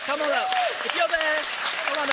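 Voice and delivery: loud, high summons; calling out. Real, not acted. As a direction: call them up over the applause. Calling volunteers up over applause.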